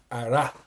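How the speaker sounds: Hará with the last syllable "RA" hit hard, like heading a ball; Hará, big stress thrown on RA; exaggerated stress. Shown as a demonstration. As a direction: punch the final A of Hará. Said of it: "that's a bit exaggerated".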